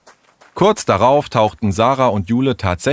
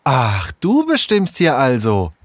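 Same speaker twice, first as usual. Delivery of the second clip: higher, provocative questioning; challenging; 7 semitones higher than usual. Acted. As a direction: challenge him, voice climbing at the end. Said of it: "Herausfordernd starrte Sarah Tom". (herausfordernd, spitz nachgefragt)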